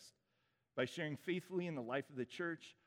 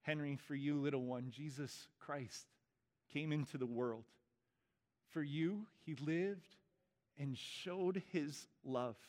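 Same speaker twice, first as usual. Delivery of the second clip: liturgy reading. Acted. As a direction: read each line gently, weighing every word. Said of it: "I'm gonna read these words".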